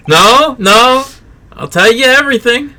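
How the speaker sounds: mock panicked plea. Suspect begging the detective not to drown him, mock panic. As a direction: beg him like you're cornered.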